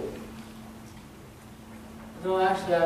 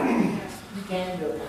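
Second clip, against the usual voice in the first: slow reassurance; 3 semitones lower, 3 dB quieter, slower than usual. Real, not acted. Preacher reassuring.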